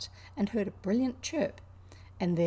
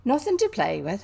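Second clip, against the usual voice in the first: surprised Yorkshire exclamation, louder; exclaimed; 7 dB louder than usual. Acted. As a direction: Martha aghast, a hint of Yorkshire. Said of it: "exclaimed Martha".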